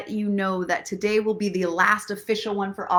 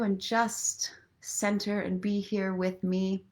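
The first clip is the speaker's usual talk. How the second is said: guided meditation; 3 dB quieter than usual. Acted. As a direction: lead them gently into calm. Leads a meditation.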